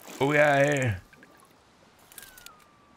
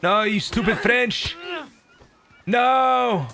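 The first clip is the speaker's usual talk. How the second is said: mock outraged yell; 8 semitones higher than usual. Yelling at French player in game.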